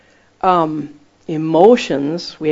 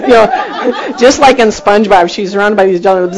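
louder, words broken by laughter; laughing while telling; 4 semitones higher, 7 dB louder than usual. Real, not acted. Preacher telling the snorkeling story, laughing loudly. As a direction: tell it through real laughter.

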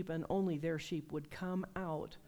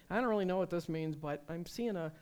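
candid demo; 4 dB louder than usual. Shown as a demonstration. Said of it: "Just say".

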